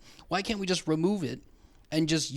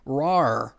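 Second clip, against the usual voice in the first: lion roar imitation; 3 semitones lower, 4 dB louder than usual. Shown as a demonstration. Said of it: "We literally wrote out R O A R".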